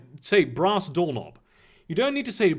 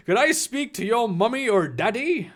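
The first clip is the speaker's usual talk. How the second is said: higher, put-on Irish voice; bad Irish accent; 4 semitones higher than usual. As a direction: ask politely in a fake Irish accent. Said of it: "go with this bullshit Irish accent".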